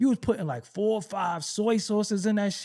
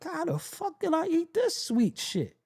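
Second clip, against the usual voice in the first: mock disgusted older self; 8 semitones higher than usual. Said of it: "You're like".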